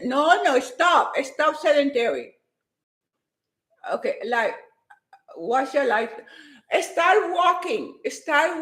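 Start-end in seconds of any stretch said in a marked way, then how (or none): 0.0-2.3 quick, excited push; real hyper energy. Real, not acted. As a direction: fire it out full of energy. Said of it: "I'm too hyper".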